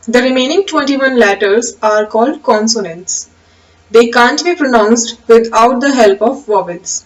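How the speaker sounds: slow, measured reading of a definition; slow dictation. Acted. Teacher dictating the definition slowly to the class. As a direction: read it out slowly so students can write.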